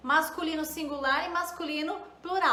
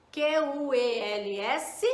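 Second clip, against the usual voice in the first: slow spelling; slower than usual. Shown as a demonstration. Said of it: "vou ter que usar assim, ó".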